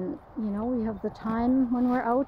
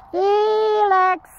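calling out; 9 semitones higher, 7 dB louder than usual. Real, not acted. Calling the dog from afar.

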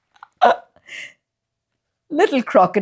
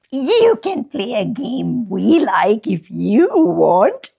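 crocodile mum voice. Acted.

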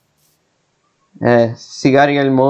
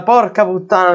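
real fright curse; 4 semitones higher than usual. Real, not acted. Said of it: "mi sono messo paura".

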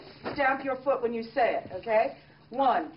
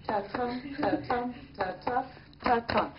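"Ta-tum" with the stress on "tum", soft like a heartbeat; heartbeat rhythm; 4 dB quieter than usual. Shown as a demonstration. Teacher shows students the iambic heartbeat, soft ta-TUM beat. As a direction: beat out "ta-tum" quietly, weak then strong. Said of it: "This rhythm is your heartbeat".

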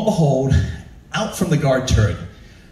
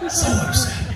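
mock upset; 12 semitones higher than usual.

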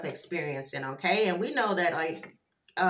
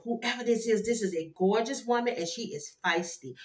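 normal talking voice

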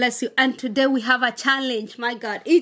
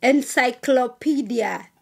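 careful dictation; slower than usual. Real, not acted. Gives the word to be spelled.

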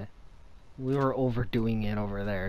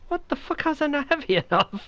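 exasperated outburst; 14 semitones higher, 6 dB louder than usual. Real, not acted. Frustrated outburst during game.

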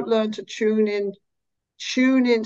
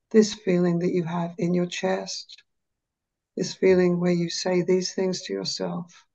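slow and low. Shown as a demonstration. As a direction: drop the voice and soothe a sad client. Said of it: "drop my voice and go slow and low".

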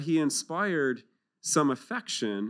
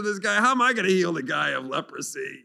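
indignant king; 2 semitones higher than usual. Retold or imitated. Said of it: "He said".

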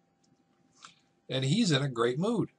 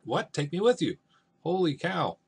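high, indignant disbelief, playfully acted; upset father; 7 semitones higher, 5 dB louder than usual. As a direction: act out a father taken aback. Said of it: "Capulet gets upset".

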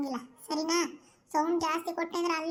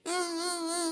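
mock wailing sob. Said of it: "ಅಂತ ಅಳ್ತಿದ್ದೀಯ".

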